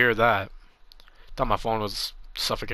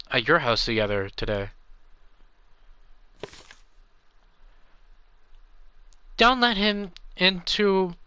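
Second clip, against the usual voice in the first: put-on higher, pleading little kid, a bit hurt; hurt child voice; 5 semitones higher than usual. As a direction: sound like a kid who just lost a friend. Reads kid dialogue in game.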